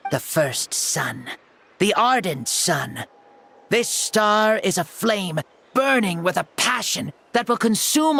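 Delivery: solemn challenge. Acted. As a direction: call her out to battle like an ancient king. Formal challenge to a duel.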